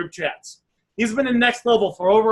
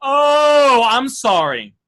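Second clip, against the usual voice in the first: loud high "Oh", then "I'm sorry" drops back; catching a mistake; 3 semitones higher, 5 dB louder, much slower than usual. Shown as a demonstration. Coach shows a seller the caught-mistake apology. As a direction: realize your slip mid-sentence. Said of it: "you made a mistake and you're catching yourself".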